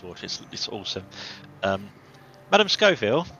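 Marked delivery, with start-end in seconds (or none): 2.5-3.3 louder, higher call across the camp. Acted. Naya yells across the camp to Madame Scoville, loud call. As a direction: yell her name to reach her far away. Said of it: "I'm gonna yell across to you".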